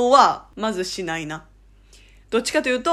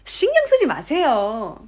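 friendly emphatic nudge; 4 semitones higher, faster than usual. Shown as a demonstration. Between close friends, insistently reassuring. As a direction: insist warmly, stretching the end. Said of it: "気使わないで".

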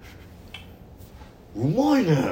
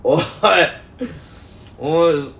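high, loud shout from the back row; loud heckling; 6 semitones higher, 4 dB louder, slower than usual. Retold or imitated. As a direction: heckle the class at mock full volume. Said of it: "大きな声で言ってさ". (後ろの席から大声で飛ばす野次)

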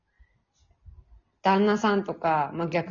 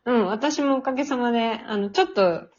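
stuffy nasal voice from a cold. Real, not acted. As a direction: talk through a blocked nose. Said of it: "あの、鼻声ですけど、".

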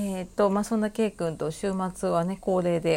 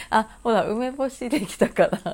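ordinary delivery

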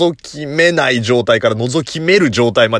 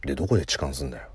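low, soft muttered phone talk; muttered quote; 10 semitones lower, 10 dB quieter, much faster than usual. Retold or imitated. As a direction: mumble it low into the mic. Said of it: "ボソボソ喋ってん".

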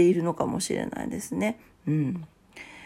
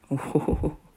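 a lightly voiced, lady-like oho-ho laugh; haughty laugh; 4 semitones lower, 3 dB quieter, slower than usual. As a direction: laugh down at the suitor like a proud lady. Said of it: "めちゃ上からやね。". (高飛車なお嬢様風の笑い)

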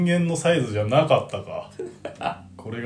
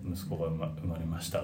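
quiet, downcast imitation; mock gloomy report; 7 semitones lower, 10 dB quieter than usual. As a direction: mimic the dreary announcement. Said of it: "ぐらいのテンションだったよ". (暗いテンションを真似て)

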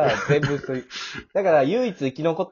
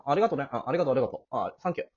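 flippant thanks; 4 dB quieter, much faster than usual. Acted. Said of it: "なんで軽いんだって".

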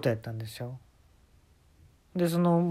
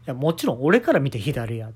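insistent teller; 5 dB louder than usual. Retold or imitated. Jacob insists on the left.

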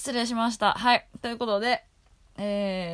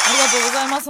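excited thanks; 6 semitones higher, 11 dB louder, much faster than usual. Real, not acted. Thanks after applause call.

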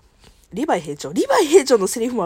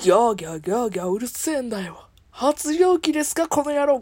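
Gintoki impression. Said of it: "杉田さんの声な".

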